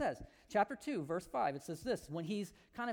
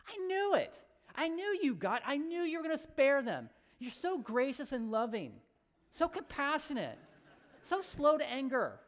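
Jonah's exasperated outburst; 5 semitones higher than usual. Retold or imitated. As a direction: throw the fit: I knew you'd spare them. Jonah rants at God.

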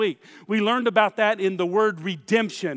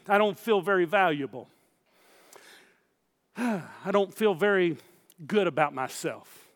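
mock dejected; 3 semitones lower, 4 dB quieter than usual. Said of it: "That's you talking".

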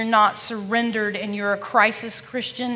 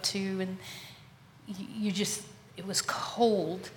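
whispered; 9 dB quieter than usual. Real, not acted. Describing the dark exam room, whispered. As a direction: hush it like the cold room.

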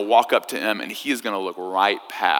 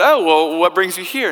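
high, eager tourist voice, much higher pitch; chatty American tourist; 8 semitones higher, 4 dB louder than usual. Retold or imitated. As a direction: play the clueless tourist, bright and curious. Tourist questioning the Queen.

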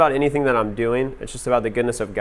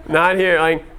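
higher, through a laugh; 4 semitones higher, slower than usual. Retold or imitated. Guest refusing nude sauna to host, laughing. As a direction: crack up while retelling your protest.

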